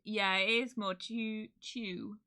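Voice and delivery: "chew" as the start of "Tuesday"; chew sound. Shown as a demonstration. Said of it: "I guess it is chew".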